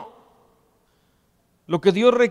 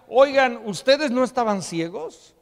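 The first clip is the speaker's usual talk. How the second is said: astonished onlooker; 3 semitones higher than usual. Acted. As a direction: call out in disbelief, rising at the end. Acting astonished onlookers questioning the healed.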